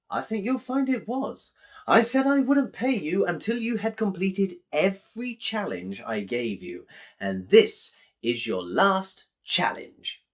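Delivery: lightly voiced smug con man; smug bookmaker. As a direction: gloat as you spring the trap. Malice smugly replies.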